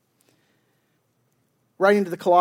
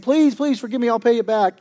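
imitated pleading, somewhat raised pitch; mock begging; 4 semitones higher, 4 dB louder than usual. Second debtor begging for forgiveness, imitated pleading. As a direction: act out a debtor's plea. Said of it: "That guy begs him".

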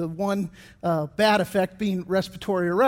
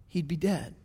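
hushed emphasis; 4 semitones lower, 7 dB quieter than usual. Shown as a demonstration. Repeated softer.

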